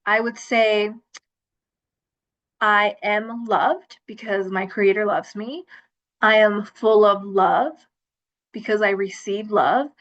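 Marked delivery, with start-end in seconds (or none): 2.6-9.9 reciting a mantra. Retold or imitated. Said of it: "I would have this mantra".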